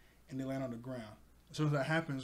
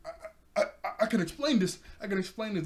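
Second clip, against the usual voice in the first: stammering, higher and louder mock panic; freaking out; 6 semitones higher, 4 dB louder than usual. Django to his boss Kuro, freaking out. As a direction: stammer out a frantic excuse. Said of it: "Django, he's freaking out".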